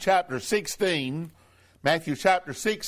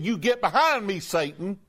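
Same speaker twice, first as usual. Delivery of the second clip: blunt rebuke; 3 semitones higher than usual. Retold or imitated. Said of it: "speaking very bluntly to Peter".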